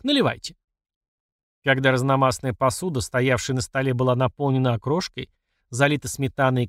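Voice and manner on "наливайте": higher-pitched, lightly bold exclamation; mildly gallant cry; bravado. A narrator's reading. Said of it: "браво вскричал Толик".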